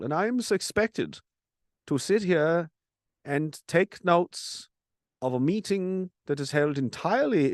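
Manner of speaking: a light mock German accent, slow and measured; understated German officer voice. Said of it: "probably with his accent".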